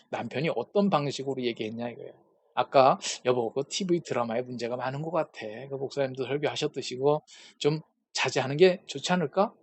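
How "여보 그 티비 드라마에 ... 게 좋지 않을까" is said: softly, kindly proposing; a calm, gentle husband asking nicely; softer, tender request to his wife; gentle suggestion. Retold or imitated. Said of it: "이렇게 얘기하면 화가 안 나는데".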